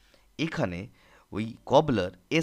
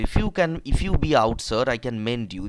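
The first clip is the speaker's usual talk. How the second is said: cheeky retort; 5 dB louder, much slower than usual. Acted. Cobbler's retort repeated.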